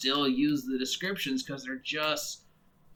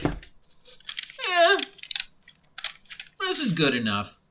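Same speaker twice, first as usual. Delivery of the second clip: lazy publisher voice; 12 semitones higher, much slower than usual. Retold or imitated. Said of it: "they're like".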